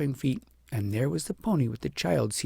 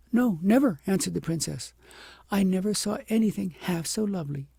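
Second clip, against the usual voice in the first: higher, amazed; awed princess; 7 semitones higher, 3 dB louder than usual. A narrator's reading. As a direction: struck by beauty.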